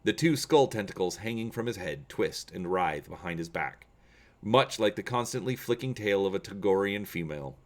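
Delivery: steady, measured storyteller read; story narration. A narrator's reading. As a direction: tell the scene like a novel read aloud. Reads a Star Wars story aloud.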